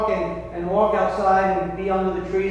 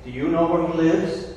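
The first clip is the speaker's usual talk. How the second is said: cunning fox. Acted. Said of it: "cunning, states".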